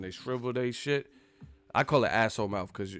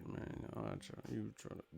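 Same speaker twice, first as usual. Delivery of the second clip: very soft imitated grumble; angry mumbling; 18 dB quieter than usual. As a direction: mutter a mock threat under the breath. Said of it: "they turn into a mumble rapper".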